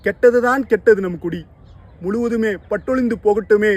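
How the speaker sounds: loud, high, rising in resolve; defiant rising outcry. Acted. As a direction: fling it out in defiance. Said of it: "என எழுந்தாள்". (எழுச்சியுடன் கோபக் குரல்)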